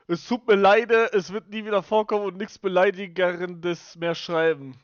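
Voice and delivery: pleading read. Acted. Reads unban request aloud.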